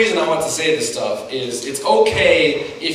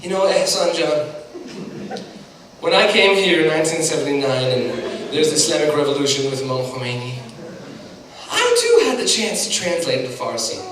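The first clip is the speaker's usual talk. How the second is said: lightly imitated Iranian mother's accent; a rough imitation of Mom's Iranian accent; terrible Iranian mom accent. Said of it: "I'm doing a terrible accent of my mom".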